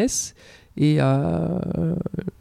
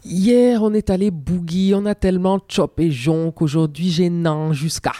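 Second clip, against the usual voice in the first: Cameroonian camfranglais. Shown as a demonstration. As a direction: drop into her Cameroonian camfranglais accent, bright and quick at first. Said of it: "si je dis une phrase en cam franglais".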